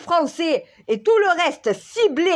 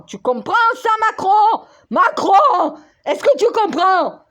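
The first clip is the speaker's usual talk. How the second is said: calling out; 2 semitones higher than usual. Real, not acted. Calling out to Macron.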